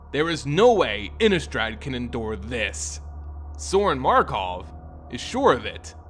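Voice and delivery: measured storyteller read, even and unhurried; story narration. A narrator's reading. Narrator telling Sorin's story, measured read. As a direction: tell the tale of Sorin steadily.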